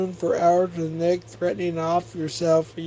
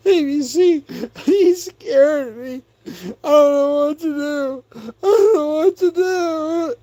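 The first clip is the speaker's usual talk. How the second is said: high, wailing fake sob, imitating a scared man; mock crying; 8 semitones higher, 4 dB louder than usual. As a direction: blubber the words like a grown man mocked for crying. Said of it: "He was crying, tears, everything".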